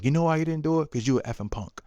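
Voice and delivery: half-hearted angry jab, rising then settling; frustrated outburst. Retold or imitated. Father scolding his nervous son, mock frustrated outburst. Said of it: "I got really frustrated".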